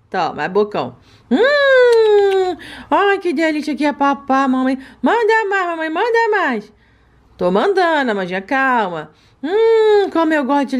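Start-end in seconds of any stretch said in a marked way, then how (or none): 1.3-6.7 high, sweet little pet voice begging for treats; squeaky pet begging for more; baby-voiced pet. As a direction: talk like a greedy cute puppy asking mommy. Owner voices her pet.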